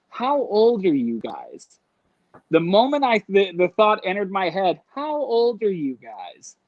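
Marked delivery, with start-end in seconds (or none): 0.1-1.8 slow, drawn-out suspicious question; dawning suspicion. Retold or imitated. Dawning suspicion, thought acted out. 4.9-6.6 slow, drawn-out question to oneself; dawning suspicion. Retold or imitated. Suspicious thought replayed.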